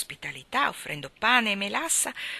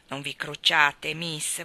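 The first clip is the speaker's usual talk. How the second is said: consoling; 2 semitones lower, much slower than usual. Acted. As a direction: gently reassure her once more. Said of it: "disse Luke per consolarla". (Luke rassicura Maggie, lento e basso)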